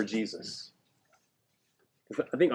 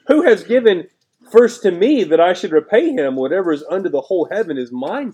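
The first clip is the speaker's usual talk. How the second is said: loud, high proclaiming of the verse; preacher thundering God's words to the congregation; forceful scripture read; 7 semitones higher, 10 dB louder than usual. Acted. Preacher proclaiming the Lord's words loudly to the church. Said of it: "Listen to that again".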